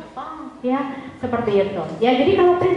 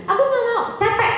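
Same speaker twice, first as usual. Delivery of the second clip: put-on whiny child; 11 semitones higher than usual. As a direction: play the sulky kid saying no.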